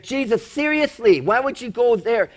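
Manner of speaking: mock-exasperated questioning of Jesus; incredulous challenge. Voicing onlookers challenging Jesus.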